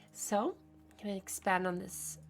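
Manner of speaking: soft unvoiced whisper, fading out; whispered to herself. Real, not acted. Playing the game, whispering her plan to herself.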